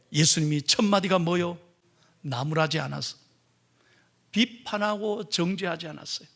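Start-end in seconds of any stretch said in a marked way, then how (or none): none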